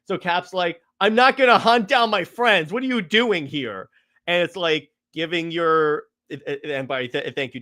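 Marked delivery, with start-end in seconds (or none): 1.0-3.9 mock-indignant, higher-pitched protest; indignant refusal. Captain America refusing to hunt his friends, mildly indignant. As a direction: protest it as a retold hero's objection. Acting Cap refusing to register.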